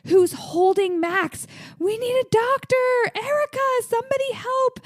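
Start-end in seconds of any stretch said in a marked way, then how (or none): 1.8-4.8 desperate plea. Retold or imitated. Lucas begging for help.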